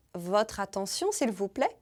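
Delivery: votre attention com final "siõ" nasal; French pronunciation. Shown as a demonstration. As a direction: attention à francesa, "atansiõ". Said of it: "Em francês é". (pronúncia francesa de votre attention)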